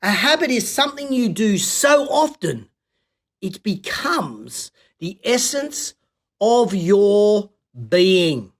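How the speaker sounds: slow down and lean into "essence" and "being"; deliberate, drawn-out repeat for emphasis; slow emphatic restatement. Shown as a demonstration. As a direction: say "A habit is something you do so often, it becomes the essence of your being" very slowly, letting each phrase land. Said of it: "So let me say that again".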